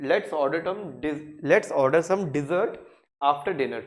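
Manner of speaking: let's order some dessert said slowly and clearly; slow model sentence. Shown as a demonstration. Teacher models the sentence slowly for learners. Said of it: "ये नहीं बोल सकते".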